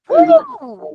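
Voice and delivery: sudden high whoop of delight; excited whoop. Real, not acted. Coach cheering a rep's numbers, excited whoop.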